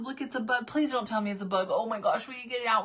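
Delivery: high, breathless-rush pleading; tumbling, high-pitched retold alarm; mock panic. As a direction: beg for help in a re-enacted panic. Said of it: "full on panic".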